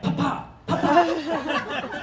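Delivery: put-on slow, high drawn-out child call; kid calling. Child calling for dad at night, slow and high. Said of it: "I hear, like".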